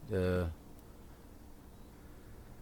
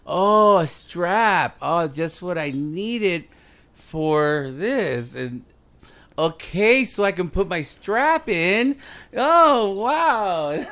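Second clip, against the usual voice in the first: higher, louder hammed-up delight; mock gift excitement; 10 semitones higher, 7 dB louder, much slower than usual. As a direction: overplay fake excitement about a gift. Mocking friend's gift reaction.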